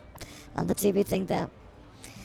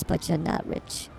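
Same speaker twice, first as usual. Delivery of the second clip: whispered tease; 4 semitones lower, 5 dB quieter than usual. Acted. Teasing co-host, drops voice.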